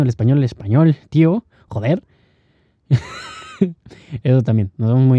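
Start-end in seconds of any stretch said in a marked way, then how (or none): 1.1-2.0 a light imitation of a Spaniard from Spain; Spanish from Spain accent. Mocking how Spaniards talk, light Castilian accent. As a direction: toss it off like a Spaniard, a bit higher. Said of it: "Al igual que el español, el castellano".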